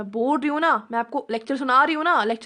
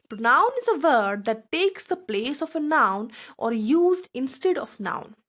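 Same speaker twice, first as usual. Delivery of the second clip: very slow, word-by-word definition read aloud; slow dictation; much slower than usual. Acted. Teacher dictating the definition to her students, slow and deliberate. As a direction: spell it out slowly so students can write it down.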